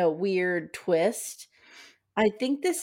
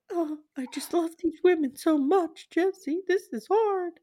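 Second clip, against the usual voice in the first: mock crying old man; 7 semitones higher than usual. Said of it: "So now Gary starts to cry".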